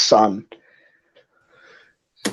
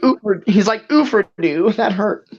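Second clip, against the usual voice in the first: pained whimper; 5 semitones higher than usual. Acted. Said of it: "doubles over in pain".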